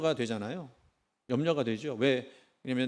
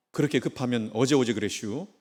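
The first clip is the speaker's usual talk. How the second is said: easygoing Chungcheong driver's retort; unhurried Chungcheong jab at the honking car; 느긋한 충청도 말투로 비꼬듯; Chungcheong dialect. Acted. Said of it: "그 비틀은 그 충청도 유머".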